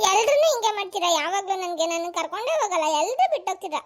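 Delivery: put-on whiny crying of a left-out child; wailing a little at being left behind; tearful complaint. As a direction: complain through acted tears. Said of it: "ಇದ್ ಯಾಕ್ ನೀನ್ ಅಳ್ತಾ ಇರೋದು".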